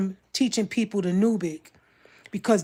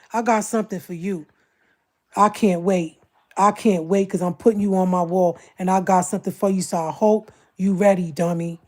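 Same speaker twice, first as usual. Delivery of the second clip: louder, taunting warning to a critic; taunting threat; 4 dB louder than usual. Real, not acted. Streamer threatening a critic who talked about him, taunting. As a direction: promise payback with relish.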